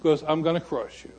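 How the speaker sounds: God's warning. Acted. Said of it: "and God says".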